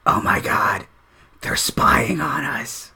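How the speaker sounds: soft, slow, scandalised undertone; hushed confiding. Acted. Dwarf leaning close to the tiefling, hushed alarm. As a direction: lean in and confide it slowly.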